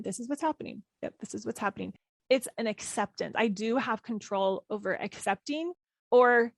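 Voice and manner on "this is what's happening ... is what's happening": soft mantra. Shown as a demonstration. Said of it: "I sometimes just say that over and over again".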